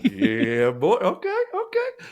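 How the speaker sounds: high, slow, giddy yes; eager buddy. Retold or imitated. Buddy enjoying the woman's attention, high and giddy. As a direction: stretch it out high and thrilled.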